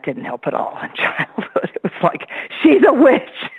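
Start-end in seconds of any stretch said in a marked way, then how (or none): 2.6-3.5 gossiping neighbor. Retold or imitated. Townsfolk gossip about her.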